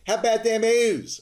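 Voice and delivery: high, loud Baltimore accent cheer. Shown as a demonstration. Podcast host showing off hometown Orioles cheer, Baltimore accent. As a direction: belt it out in a thick Baltimore accent. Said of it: "my best Baltimore accent".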